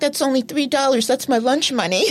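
hurt little complaint about his lunch money; indignant whine. Retold or imitated. Bud protesting to his sister over three dollars, whiny. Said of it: "He's like".

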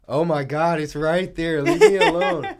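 high squealing laugh. Real, not acted. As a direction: laugh through it, sneeze stuck. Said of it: "about to sneeze".

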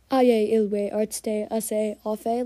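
"Aye, Ilwe, Artste, Ase, Afe" in drawn-out Pig Latin syllables. Shown as a demonstration. Podcaster imagines a cat opening a meeting in Pig Latin. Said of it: "how much longer that is".

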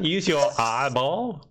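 slow, drawn-out Southern accent; Southern American accent. Shown as a demonstration. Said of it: "American, like, Southern word".

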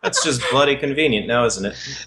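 Aussie repeat, falling away at the end; same Aussie jab, trailing off; Australian accent. Acted. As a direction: hammier Australian take. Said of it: "my share of terrible accents".

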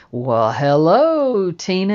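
put-on an old man ogling the younger woman; leering hello. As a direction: savour her name like a treat. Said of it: "looking at Tina like a pork chop".

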